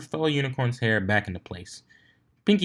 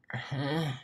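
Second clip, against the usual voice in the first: uninspired; 5 semitones higher, 9 dB quieter than usual. A narrator's reading. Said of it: "with an uninspired".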